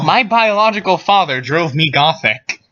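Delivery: high, overacted quoting voice; hammy stage actor. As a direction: ham up the quote. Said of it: "It says, and I quote".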